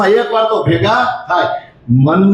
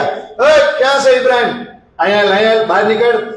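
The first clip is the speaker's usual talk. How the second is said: higher pitched angry calling out; angry shouting; 5 semitones higher than usual. Retold or imitated. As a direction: storm in and demand he come out. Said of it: "આટલો ગુસ્સે". (ગુસ્સામાં ઊંચા અવાજે બૂમ)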